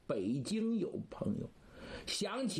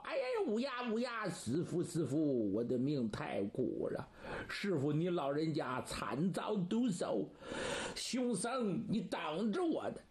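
grieve, then vow revenge; wailing lament. Acted. Disciple mourns his master and threatens the monk, wailing lament.

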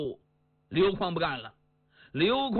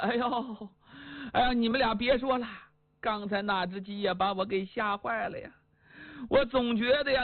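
fretful wife. Acted. Wife tells husband and son the rooster scared her, fretful. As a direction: wail it like a spooked wife.

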